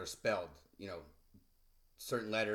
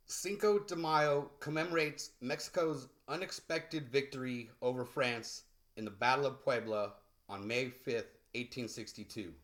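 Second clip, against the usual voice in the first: reading aloud; 3 semitones higher than usual. Acted. Teacher reading the story passage to learners. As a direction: clear read-aloud voice.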